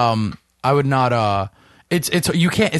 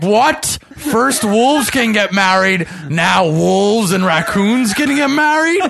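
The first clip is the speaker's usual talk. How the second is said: mock outrage; 4 semitones higher, 4 dB louder than usual. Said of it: "This is where I'm like".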